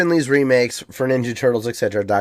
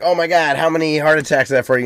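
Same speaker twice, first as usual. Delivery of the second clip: higher-pitched Chicago fan impression; imitating concerned Chicago buddies; Chicago guys; 4 semitones higher, faster than usual. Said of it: "and they're like".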